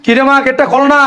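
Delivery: high call through a door. Acted. Father still locked out calls his daughter, calling out. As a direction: call impatiently to be let in.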